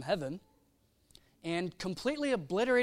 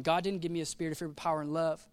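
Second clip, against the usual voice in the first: quick paraphrase; 3 semitones lower, 4 dB quieter, faster than usual. Retold or imitated. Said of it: "we quote that second verse".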